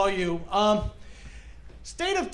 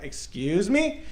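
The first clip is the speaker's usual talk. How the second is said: put-on slow, drawn-out valley girl "Excuse me?"; offended valley girl, very slow; 3 semitones lower, much slower than usual. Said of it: "I start talking like a valley girl".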